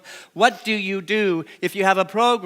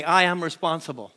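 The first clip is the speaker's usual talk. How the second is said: call and response line. Shown as a demonstration. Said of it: "Say that with me".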